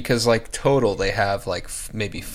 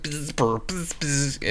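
glitchy static buzz; 5 semitones higher, 6 dB quieter than usual. Retold or imitated. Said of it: "the internet was going like".

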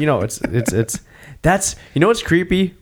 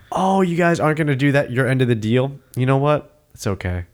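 easygoing, forgiving bad guy; acted-out calm reassurance; super calm; 4 semitones higher than usual. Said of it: "when the bad guys are super calm".

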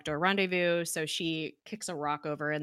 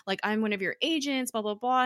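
higher-pitched, retold yell; mock yelling; 6 semitones higher than usual. Agent urging the director to remember, mock yelling. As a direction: raise your voice in a light imitation of yelling. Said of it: "she starts yelling at him".

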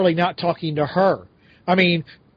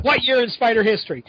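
abrupt caller question, a little higher; blunt caller quote; 5 semitones higher than usual. Retold or imitated. Co-host's late-night call, mocked abruptly. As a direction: repeat the demand as if mocking it. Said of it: "And that's what".

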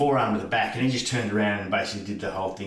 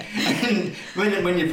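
ordinary talk

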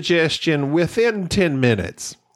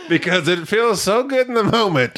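laughing while talking; 4 semitones higher than usual. Real, not acted.

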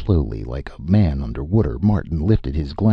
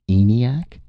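puzzled question; 7 semitones higher, 3 dB louder than usual. Acted. Martin puzzled echo.

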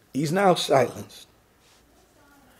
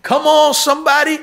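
much higher, louder rallying cry; calling out harder; 11 semitones higher, 3 dB louder than usual. Real, not acted. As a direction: push the call up to a shout. Repeated call, even higher.

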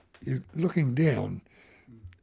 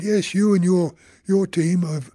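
loud, higher retold scolding; angry scolding; 8 semitones higher, 13 dB louder than usual. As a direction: tell them off loudly, finger pointed. Officer scolding the team.

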